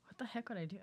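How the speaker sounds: breathy unvoiced whisper. Real, not acted. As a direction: whisper it to yourself. Muttering own hidden talent.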